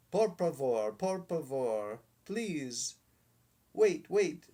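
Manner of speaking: dog yipping to stop the showman; yipping plea. A narrator's reading. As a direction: beg like a frantic pup. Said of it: "yipped the dog".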